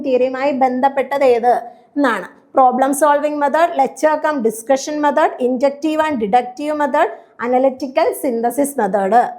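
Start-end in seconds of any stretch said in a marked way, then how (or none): 2.5-9.3 each option read out very slowly. Shown as a demonstration. Teacher reads answer options to students, very slowly. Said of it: "reading answer options slowly".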